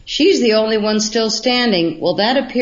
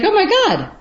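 high, astonished "oh my God"; surprised gasp; 12 semitones higher, faster than usual. Retold or imitated. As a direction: blurt it out in sudden amazement. Retelling finding nodes in book.

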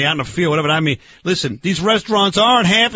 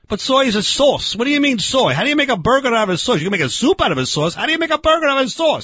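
higher, hurried incredulous questioning; exasperated bafflement; 5 semitones higher than usual. Acted. Barbecue man can't grasp a soy burger, exasperated. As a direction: fire off baffled objections, pitch climbing.

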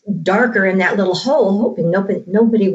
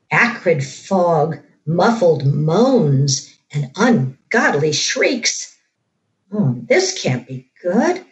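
hushed creeping horror. A narrator's reading. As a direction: read it like a creeping horror tale. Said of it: "I'm gonna read this part from the book".

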